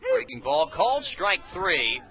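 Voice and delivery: big, high, loud call of strike three; excited strikeout call. Real, not acted. Play-by-play man calling the strikeout to listeners, loud and rising. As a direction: sell the strikeout to the crowd.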